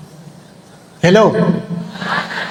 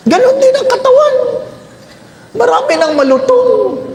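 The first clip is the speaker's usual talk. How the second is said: laughing; 13 semitones higher than usual. Real, not acted. Joking laugh about brittle bones.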